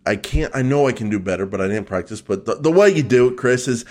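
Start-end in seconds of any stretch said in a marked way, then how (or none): none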